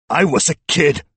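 high, loud desperate shout. A narrator's reading. Cornered suspect excusing himself to detectives, shouting. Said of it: "Eubanks shouted".

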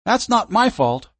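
high, slow frightened voice; frightened pleading. Acted. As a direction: plead in panic. Frightened teen protests.

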